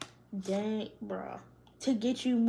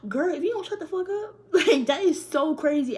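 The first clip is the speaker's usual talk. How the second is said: laughing; 4 semitones higher, 6 dB louder than usual. Real, not acted. Laughing at friend.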